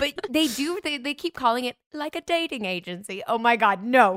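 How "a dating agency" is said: terrible, clumsy put-on British accent. Quoting what the show keeps calling it: terrible British accent attempt. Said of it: "I just attempted a terrible".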